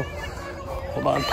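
quick whispered aside; hushed hold-on whispered off-mic; sudden whisper. Real, not acted. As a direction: drop to a breathless whisper to pause. Whispers while people nearby are loud.

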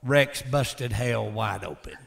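low, slow growl. Shown as a demonstration. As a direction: growl it out slowly. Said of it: "I'd growl when I say it".

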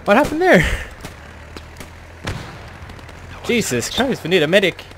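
shocked high shouting after blast; man down shout. Real, not acted. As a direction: yell for a medic in shock. Survived artillery, calling for medic.

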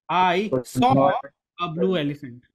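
heavy emphasis on "saw"; stress on saw. Shown as a demonstration. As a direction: hit the word "saw" hard, then ease off. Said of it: "the emphasis on the saw".

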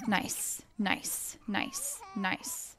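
soft unvoiced whispers; whispering. Real, not acted. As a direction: whisper so babies stay asleep. Whispering to sleeping babies.

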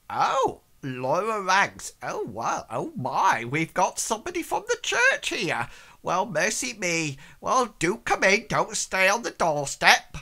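high, loud, flustered maid voice; gushing housemaid welcoming the church man; fussy servant. Acted.

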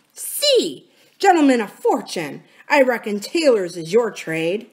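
lightly voiced disgusted pirate captain; a touch of exasperated contempt; scornful Silver. Silver is sick to speak to his crew, scornful.

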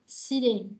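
seating said with its pitch dropping to the end; falling on seating. Shown as a demonstration. Teacher showing the last choice, seating falling. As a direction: let seating fall to close the choice. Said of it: "Xuống cái này ha".

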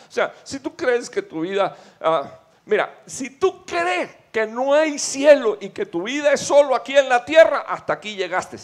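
fiery preaching. Acted. Predicador a la congregación sobre el cielo, a toda voz. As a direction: build to a roaring climax about heaven. Preaching builds to full force.

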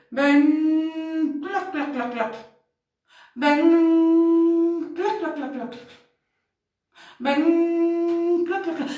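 loud creepy "Ven" then clacking; eerie come-here with clack sounds; spooky monster call. Acted. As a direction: lure the child like a lurking monster.

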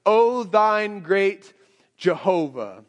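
put-on slow, grand old-fashioned prayer, "Jehovah" drawn out; archaic prayer voice. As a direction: intone it like a pompous old-English prayer. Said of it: "language that isn't our normal language".

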